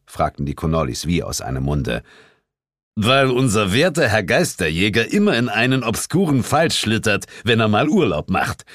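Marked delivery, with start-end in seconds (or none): 3.0-8.6 called out. A narrator's reading. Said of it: "rief Sir James dazwischen".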